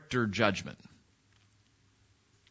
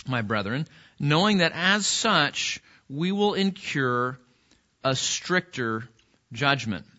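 scripture reading. Real, not acted. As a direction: read it out in measured phrases, pausing between them. Reads the verse aloud.

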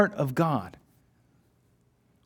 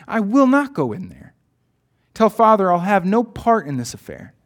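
sharp refusal; 3 semitones higher, 4 dB louder than usual. Acted. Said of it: "he said sharply".

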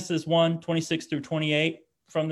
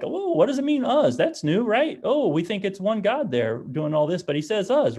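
puzzled scholars; 6 semitones higher than usual. Retold or imitated. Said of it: "like, takes a look like".

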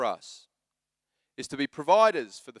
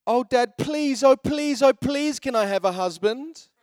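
high, loud sing-song begging; pleading little girl; 8 semitones higher, 4 dB louder than usual. Retold or imitated. Three-year-old begging Dad for a husband, hammed-up pleading. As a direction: beg like an excited small child, pitched way up.

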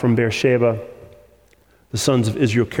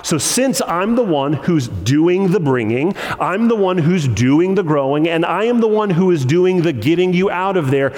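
building emphasis; 5 semitones higher than usual. Acted. Preacher building God's promise.

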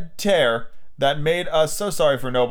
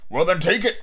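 adult comeback, only slightly raised; echoing father; 3 semitones higher than usual. Acted. Father returns son's challenge, bickering retort. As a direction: toss the dare back.

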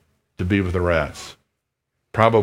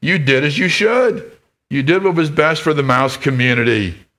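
higher, mildly raised, insistent; stern head mouse; 5 semitones higher than usual. Acted. Head mouse scolding Lester, mildly raised. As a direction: lay down the rule to Lester. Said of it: "shouted the head mouse again".

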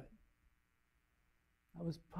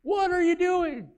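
voice in his head; 3 semitones higher, 6 dB louder than usual. Retold or imitated. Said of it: "But this voice said".

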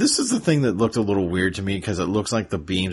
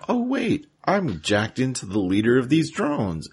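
mock bright idea; 5 semitones higher than usual. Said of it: "Rat Trap gets the bright idea".

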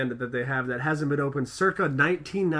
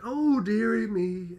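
mock old lady; 6 semitones higher, slower than usual. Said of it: "Mom's just like".

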